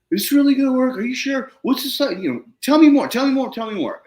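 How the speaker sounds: high-pitched, insistent mock pestering; pestering questions. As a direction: imitate a farmer badgering for answers. Farmer pestering him daily with questions.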